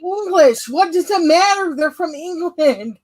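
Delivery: high, emphatic disbelief; retold incredulity. Retold incredulous reply to her.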